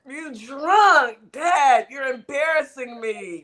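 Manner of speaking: imitating an embarrassed kid; whiny kid begging his drunk dad; kid's mock plea. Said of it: "He was like".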